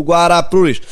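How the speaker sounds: high sing-song drink vendor cry; singsong beach vendor call. Acted. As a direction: shout the drink name across the beach. Beach vendors voiced in poem. (pregão agudo de vendedor de praia)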